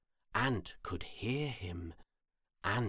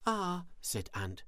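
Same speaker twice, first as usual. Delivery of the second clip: high-pitched busy little ant; hohe Ameisenstimme; 11 semitones higher, faster than usual. A narrator's reading. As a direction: chirp it high as a small ant. Ant's figure voice in story.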